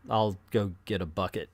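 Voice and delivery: low, soft, underwhelmed offer; deflated mock Robin. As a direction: drop it low and small as an anticlimax. Deflated joke line for Robin.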